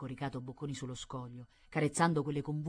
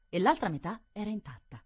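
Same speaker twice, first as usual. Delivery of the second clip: plain reading voice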